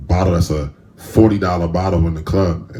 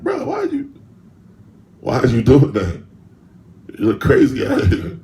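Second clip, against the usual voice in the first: much higher, put-on voice calling himself out; scolding inner voice; 9 semitones higher, 4 dB louder than usual. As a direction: play your own conscience asking why.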